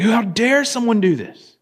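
high, drawn-out indignant outburst; outraged. Retold or imitated. King hearing of the stolen sheep, retold outrage. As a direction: act out outraged disbelief, pitch jumping up. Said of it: "David just gets outraged".

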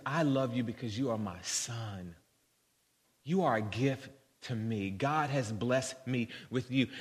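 soft, unhurried fatherly affection; understated tenderness, quietly retold; tender reassurance. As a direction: gently assure a son he is loved. Father reassures his son.

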